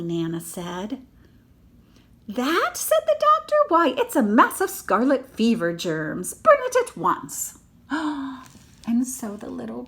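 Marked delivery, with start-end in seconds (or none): 2.3-7.6 high, loud shocked doctor; loud alarmed doctor demanding burning; stern doctor. Acted. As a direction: bark out the order. Doctor voiced in story.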